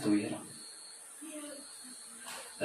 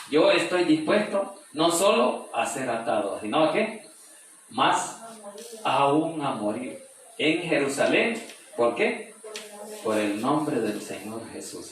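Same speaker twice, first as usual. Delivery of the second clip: preacher proclaiming to the congregation; fervent preaching; 2 semitones higher, slower than usual. Acted. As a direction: declare Paul's resolve with full conviction.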